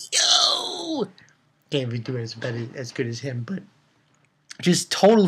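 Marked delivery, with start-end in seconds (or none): 0.1-1.0 exclaim. Real, not acted. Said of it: "reacting to scene".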